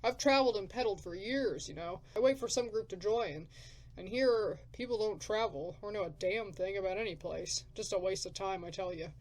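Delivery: loud, rough wasteland drifter; gruff drifter. Acted. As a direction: bark it like a grumpy survivor.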